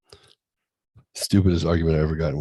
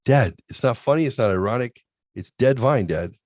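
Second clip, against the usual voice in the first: imitating annoyed son; 4 semitones higher, 4 dB louder than usual. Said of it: "He's like".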